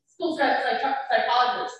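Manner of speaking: chuckling while tripping over psychologist; laughing through a stumble. Real, not acted. Parent laughing at her own stumble over the word, laughing.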